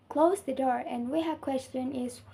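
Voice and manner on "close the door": complete-sounding fall on "door"; falling intonation. Shown as a demonstration. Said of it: "pitch of voice drops at the end".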